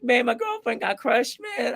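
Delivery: Key and Peele. Acted. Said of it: "I did like the Key and Peele".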